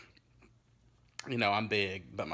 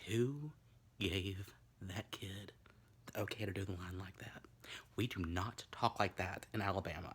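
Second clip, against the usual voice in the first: whisper; 4 dB quieter than usual. Real, not acted. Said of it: "mocking the dialect coach".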